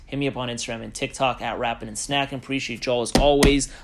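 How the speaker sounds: winded after talking; short of breath, pushing through. Real, not acted. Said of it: "I'm running out of breath".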